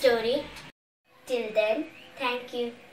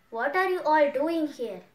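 a mild shout, slightly raised and higher; giant's shout; 3 semitones higher, 9 dB louder than usual. Acted. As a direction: call out as the annoyed giant, without a full yell. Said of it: "He shouted".

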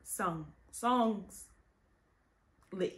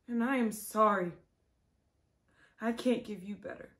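tragic heroine sorrow; 5 dB quieter than usual. Acted. Quiet apology after outburst.

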